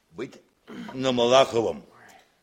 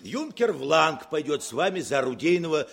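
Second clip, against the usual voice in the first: joking laugh; 3 semitones higher than usual. Acted. Commander jokes cadet will go along.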